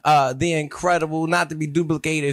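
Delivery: showman host announcement; ringmaster. Acted.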